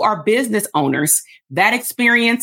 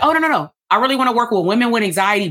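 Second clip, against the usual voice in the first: higher, quick protest from a client; eager client; 5 semitones higher, faster than usual. Acted. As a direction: jump in to correct the coach, higher and quick. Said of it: "And you're gonna be like".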